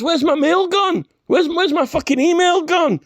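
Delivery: hammed-up emperor moaning; mock Ming voice. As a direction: play a petulant supervillain missing his mail. Ming mocked as losing his mail.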